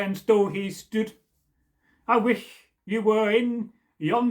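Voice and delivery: measured, slow ballad recitation; storyteller reading a folk poem aloud. A narrator's reading. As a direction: recite it like an old Scots ballad. Reads the old Scottish poem.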